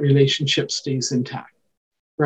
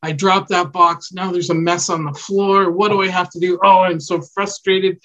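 mock frustrated self-talk; 3 semitones higher than usual. Shown as a demonstration. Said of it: "I'm gonna literally talk out loud so kids learn".

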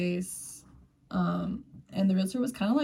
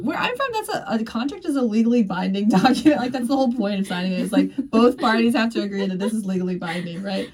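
exasperated; 2 semitones higher, 4 dB louder than usual. Retold or imitated. Exasperated retelling of own complaint.

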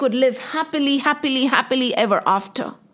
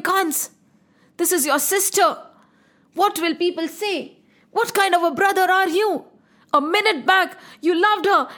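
higher, pleading to stop him; urgent plea; 5 semitones higher than usual. Acted. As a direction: beg him to stop, alarmed. Vasudev stops Kans' attack.

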